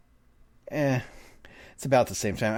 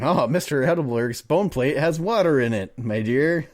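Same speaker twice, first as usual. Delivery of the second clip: exaggerated lilt, rising on "my dear"; hammed-up period politeness; mock old-time phrase. Reader re-enacts the odd bone plate line, mock-genteel.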